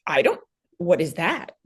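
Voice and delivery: a breathless whispered question; stunned mother whispering to the doctor; shocked whisper. Retold or imitated. Retelling her own shocked reaction.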